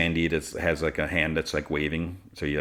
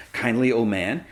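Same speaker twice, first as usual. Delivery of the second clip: put-on higher, incredulous echo of "kindly old man"; scoffing; 5 semitones higher than usual. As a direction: imitate a scoff, pitch rising into a question. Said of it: "And she scoffs".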